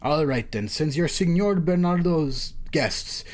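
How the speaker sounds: lightly performed game dialogue; acted story reading. Judge thanks the strangers, lightly acted story reading. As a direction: read the characters' lines clearly, a touch formal.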